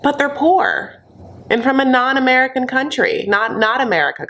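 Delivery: high, put-on earnest excuse; mock-naive protest. Mimics the couple's self-righteous excuse.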